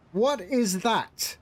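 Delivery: slow, mock German-accented English. Shown as a demonstration. Streamer joking that German is accented English, light German accent. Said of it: "in a German accent".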